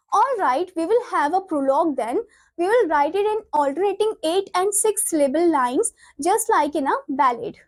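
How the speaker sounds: slow, deliberate textbook read-aloud; measured classroom reading. Acted. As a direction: read the script out slowly, word by word. Reads play lines aloud.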